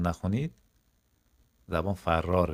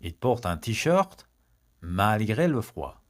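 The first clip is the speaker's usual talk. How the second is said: slow, carefully spaced French for learners; each syllable laid out for the class to copy; slow model sentence; much slower than usual. Shown as a demonstration. Teacher slowly models the French sentence for students.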